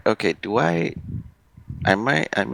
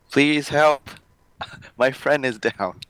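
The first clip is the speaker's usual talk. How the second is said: mock shout for help; 6 semitones higher than usual. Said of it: "I'll just shout out".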